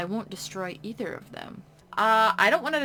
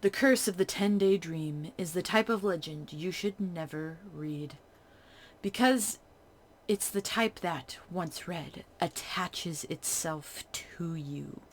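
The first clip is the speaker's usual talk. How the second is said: story narration. Acted. A streamer reading the horror game's narration to viewers. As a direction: read the legend like a ghost story.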